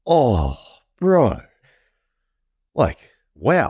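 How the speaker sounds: high, rising shocked disbelief. Retold or imitated. Boy hearing toys confiscated, high incredulous outrage. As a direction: pitch it way up in outrage. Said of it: "And I'm like".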